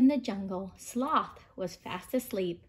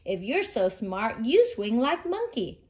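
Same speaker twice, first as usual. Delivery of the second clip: angry. Acted. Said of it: "said Kangaroo angrily".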